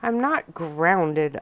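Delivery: slow, mildly indignant huff; huffy. Acted. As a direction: push back with a little huff. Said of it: "I huffed".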